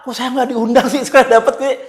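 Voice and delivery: lightly voiced neighbour asking why he was left out; whiny poor neighbour. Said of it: "yang merasa duafa".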